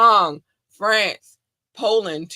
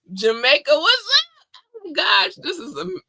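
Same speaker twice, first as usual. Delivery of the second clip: much higher excited greeting; hyped shout-out; 13 semitones higher, 4 dB louder than usual. Real, not acted. Host shouting out Jamaican listeners, high and hyped. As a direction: hype up the Jamaica fans.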